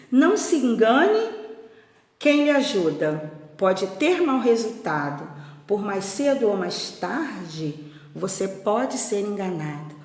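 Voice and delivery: measured read-aloud with pauses between lines; verse reading. Acted. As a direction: read the warning verse out to children. Reads the book's verse aloud.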